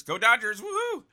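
loud, high team cheer; cheering for the Dodgers. Real, not acted. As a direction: call it out like a fan in the stands. Host cheering for his team.

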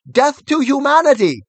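high, loud war cry; battle cry. A narrator's reading. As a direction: shout it as a charge. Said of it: "sprang forward with a cry of".

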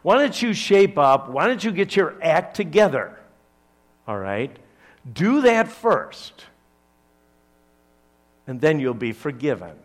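lightly voiced nagging legalist; a mild hint of a scolding religious voice; demanding preacher, only lightly acted. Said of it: "Legalism says this".

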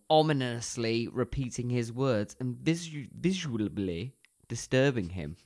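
measured, scripted synopsis reading; plot summary read-out. Real, not acted. Co-host reading the plot slot against a timer, narration style. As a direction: read it out like a film blurb, lingering on phrase ends.

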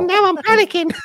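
very high, loud squeal through laughter; laughing mock panic. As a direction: crack up as you squeal it. Laughing through a joke about himself.

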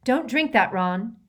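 high, loud sharp warning; sudden stern order. A narrator's reading. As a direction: cut in urgently to stop him. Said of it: "spoke sharply".

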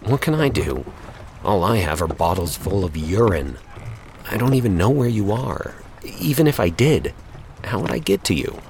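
muttered through gritted teeth; through clenched teeth. Acted. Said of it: "Greg muttered through clenched teeth".

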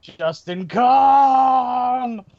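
long, slow, loud call; drawn-out shout. Pretend. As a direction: stretch the name out and shout it. Calling out the name in the credits.

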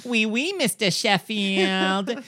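high, slow mock French to her boss; Fran Drescher fake French. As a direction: drag out Mister Sheffield like the nanny. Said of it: "The nanny trying to do a French accent".

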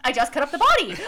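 high, loud, laughing retelling; mock confession. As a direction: blurt it out through laughter, hammed up. Retold mock confession, played for laughs.

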